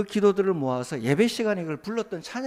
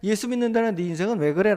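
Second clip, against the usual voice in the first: higher and louder scornful jeer; a jeering voice, raised and louder; mocking taunt; 5 semitones higher, 5 dB louder than usual. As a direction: sneer at the believer the way the mockers do. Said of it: "라며 우리를 조롱한다는 겁니다".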